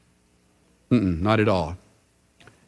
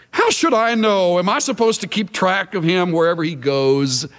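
defiant; 2 semitones higher than usual. Acted. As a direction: throw the question back in open defiance. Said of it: "defiance and rebellion".

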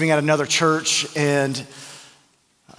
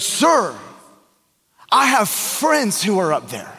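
higher, panicky plea to the manager; imitating a panicked friend begging; freaking out; 4 semitones higher, slower than usual. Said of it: "he's just freaking out".

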